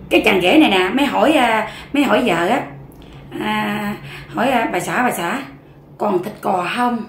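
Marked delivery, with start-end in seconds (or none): 4.7-7.0 hushed night question. Acted. Husband sneaking at night asking wife.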